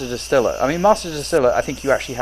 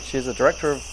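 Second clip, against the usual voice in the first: quiet reading under his breath; mumbling as if to himself; internal voice; 7 dB quieter than usual. Real, not acted. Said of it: "that's his internal voice".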